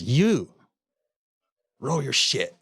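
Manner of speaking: sharp, loud barked order from the guard; retold guard's shout. Prison guard orders the cussing inmate to pack up, shouting.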